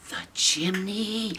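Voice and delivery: soft slow dawning gasp; hushed realization. Acted. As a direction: breathe it as you realize. Realization repeated.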